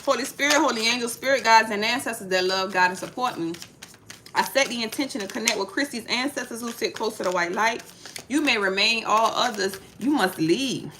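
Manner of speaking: a lightly intoned spiritual invocation, calm and steady; soft ritual prayer before a card pull. Acted. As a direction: call on the spirits with quiet reverence. Opening prayer before tarot reading.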